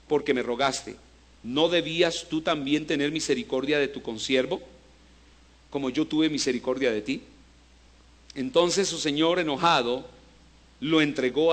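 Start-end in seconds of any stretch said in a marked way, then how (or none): 0.1-7.2 grave rebuke. Acted. Master reproaches the wicked servant, low and grave. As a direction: lower and softer, solemn.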